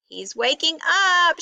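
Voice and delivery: high, excited announcement; shouted. A narrator's reading. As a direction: call out the good news. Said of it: "shouted Rabbit".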